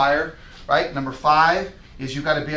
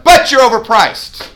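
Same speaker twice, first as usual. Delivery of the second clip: loud, high, blunt declaration; bold blunt shout; 7 semitones higher, 11 dB louder than usual. Shown as a demonstration. Agent telling Kelby bluntly his price is too high, shouted. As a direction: hit them with the truth. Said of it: "the five percent of the boldness".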